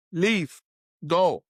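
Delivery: mild mock anger, ordering him away; angry retelling. Man ordering the stranger away in mild mock anger. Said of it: "then I got more angry".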